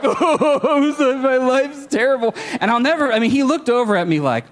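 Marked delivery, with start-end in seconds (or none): 0.0-2.3 laughing mock despair. Awkwardly crying to old friend.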